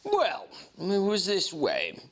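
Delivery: measured reading of a classic novel; steady audiobook narration; story narration. A narrator's reading. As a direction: read it like a storyteller. Reads the novel aloud.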